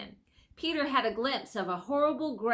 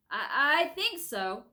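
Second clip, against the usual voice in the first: panting; 6 semitones higher, 4 dB louder, slower than usual. Acted. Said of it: "panted Edmund".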